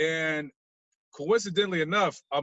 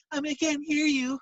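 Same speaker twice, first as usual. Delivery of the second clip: high, prim operator voice; raised mock dispatcher voice; 11 semitones higher than usual. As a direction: mimic the operator who can't hear. Operator voice retold.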